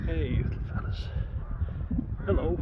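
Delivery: lifted, sing-song hello to the little ones; high animal greeting. Real, not acted. Greeting the little fellas in the field, high and sing-song.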